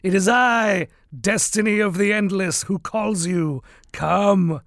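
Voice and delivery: lightly voiced dry, dusty-toned Destiny; a hint of a dry, dusty voice; dry as dust. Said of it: "his voice, voice dry as dust".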